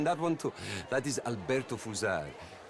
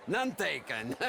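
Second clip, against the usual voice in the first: laughing; 4 semitones higher than usual. Acted. Host laughing off the outlaw's apology, laughing. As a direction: toss it back through laughter.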